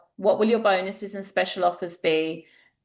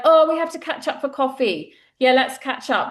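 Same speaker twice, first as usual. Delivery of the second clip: mock breezy promise; 5 semitones higher, 3 dB louder than usual. Acquaintance met in the street.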